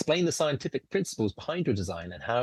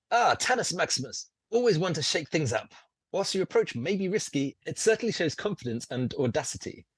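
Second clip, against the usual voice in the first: theatrical host, higher and lilting; John Hammond; 6 semitones higher than usual. Acted. Game master as Hammond appraising player's risky plan, theatrical. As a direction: greet the player with grand relish.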